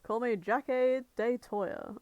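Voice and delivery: hammed-up odd pronunciation of "Jackie de Toya"; Matt Berry. Co-host quoting an actor's character, "Jackie de Toya" oddly pronounced. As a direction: play up the strange sounds in "Jackie de Toya". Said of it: "just Matt Berry mispronouncing things".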